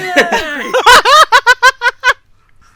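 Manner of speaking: loud, high, crying laughter; wheezing high cackle; shrieking laugh. Real, not acted. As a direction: lose it laughing to tears. Cracking up at own joke.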